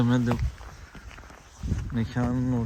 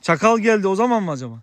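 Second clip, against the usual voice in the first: loud, raised-pitch question to someone far away; calling across; 7 semitones higher, 7 dB louder, faster than usual. Real, not acted. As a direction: project the question over to a neighbour. Shouted chat with distant villager. (uzaktaki komşuya bağırarak sorma)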